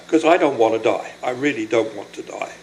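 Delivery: pleading not to die, overcome; emotional. Real, not acted. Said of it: "I'm a little bit emotional about this".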